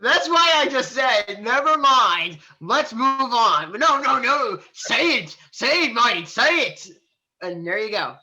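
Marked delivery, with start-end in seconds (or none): 0.0-6.9 raised, mock-insistent protest; exasperated retelling. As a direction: act out their pestering, high and loud. Retells being urged, in exasperation.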